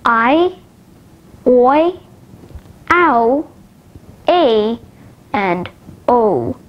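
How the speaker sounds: "I", "oi", "ow", "a", "o" as separate glides; each diphthong isolated, with pauses; diphthong recap. Shown as a demonstration. Teacher recapping five diphthongs, each gliding sound on its own. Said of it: "let's recap the five different diphthongs".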